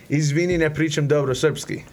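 Serbian accent. Shown as a demonstration. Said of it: "It's the accent".

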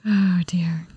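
whispered mild dismay; soft resigned whisper. Real, not acted. Wife whispering reply to husband's pizza plan.

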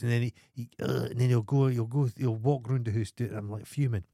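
ordinary delivery

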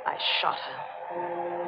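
slow, soft confession; hushed confession. Acted. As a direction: breathe out the confession slowly. Murder confession scene.

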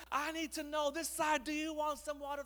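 very high, excited rallying call; hammed-up motivational speaker. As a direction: hype up one side of the room. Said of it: "going all motivational speaker here. He's super excited".

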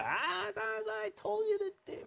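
very high, strained, slow whine; mock exasperation. Parent who has had it up to here, high mock exasperation. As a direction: squeeze it out high, soft and slow. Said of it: "you get up to here".

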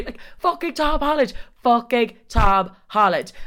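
high, slow starstruck emphasis; starstruck squeal. Real, not acted. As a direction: savour each word in disbelief. Starstruck at Tom Holland.

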